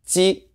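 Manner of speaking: "Ji" high, with tongue forward; tight J sound. Shown as a demonstration. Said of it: "it's a tighter sound".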